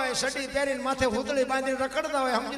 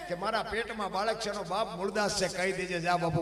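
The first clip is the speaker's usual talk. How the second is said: softly dropped words; 3 semitones lower, 5 dB quieter than usual. Acted. The saint's words, dropped low.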